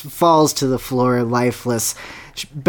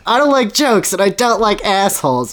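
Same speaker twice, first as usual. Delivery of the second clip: quoting the line again, pitched up; quoting Bowser, higher; 5 semitones higher than usual. Retold or imitated. Fan quoting Bowser's line, lightly voiced menace. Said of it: "I love that character".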